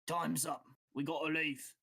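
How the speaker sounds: lightly voiced boss calling time; a hint of accented urgency from the boss; guild boss. Boss calls through the doorway.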